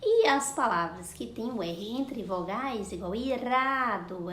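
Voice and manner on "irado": "irado" drawn out with a light tapped R; soft R demonstration. Shown as a demonstration. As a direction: tap the R clearly in "irado". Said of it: "ela tem o som do R". ("irado" com R brando, vibrado)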